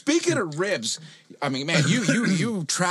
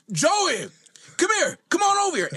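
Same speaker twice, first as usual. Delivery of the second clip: calling trainer; 13 semitones higher than usual. Retold or imitated. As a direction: yell for Joey across the room, pitched high. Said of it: "he goes".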